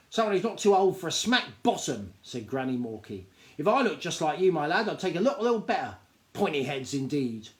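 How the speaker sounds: a hint of a sharp old granny, telling him off; old granny scolds the cheeky gnome lad, a hint of sharpness; lightly voiced scolding granny.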